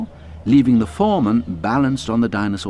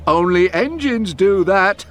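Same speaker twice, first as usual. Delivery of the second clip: louder, chuckling punchline; laughing; 11 semitones higher, 5 dB louder, slower than usual. A narrator's reading.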